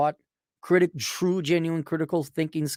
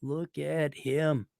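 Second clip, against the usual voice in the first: much softer, very slow and tender; soft slow cooing; 7 dB quieter, much slower than usual. Real, not acted. Admiring the little boy's photo, soft and slow. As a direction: melt over the photo, slowly. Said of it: "there's a picture of you".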